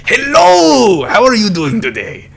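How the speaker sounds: loud, high greeting, easing down toward the end; Kabu. Acted. Phone app character greets its owner, loud high voice. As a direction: burst in with a big high-pitched hello. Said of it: "Kabu was like".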